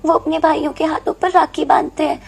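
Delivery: understated wistful big sister; tearful sadness. Acted. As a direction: explain gently with tears welling up. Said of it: "Meenu की आंखों में आंसू आ जाते हैं".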